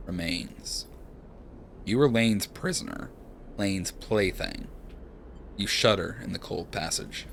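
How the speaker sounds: calm second-person narration; story narration. A narrator's reading. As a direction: read the scene like a storyteller.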